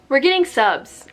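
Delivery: slow, loud, excited announcement. Real, not acted. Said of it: "I'm excited".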